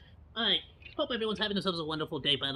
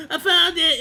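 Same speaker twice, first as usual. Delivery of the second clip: excited; 8 semitones higher, 12 dB louder than usual. Real, not acted. Excited at finding it.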